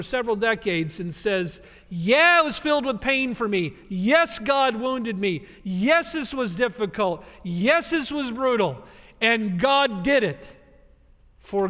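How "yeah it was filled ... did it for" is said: raised, slow, aching emphasis; impassioned Joseph. Acted. Joseph admitting God wounded him, impassioned and slow. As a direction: cry it out as Joseph. Preacher voicing Joseph's anguished acceptance.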